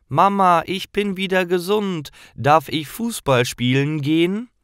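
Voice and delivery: höher und lauter, voller Freude; aufgeregter Junge. Acted. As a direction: ruf froh nach Mama, wieder gesund. Junge wieder gesund, ruft Mama. (Junge ruft aufgeregt und höher nach seiner Mama)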